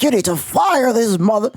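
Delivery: troll demanding a coach firing in a wrestler voice. Retold or imitated. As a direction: bark it like a mock angry pro wrestler. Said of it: "that honky tonk Rowdy Piper, Hacksaw Jim Duggan shit voice".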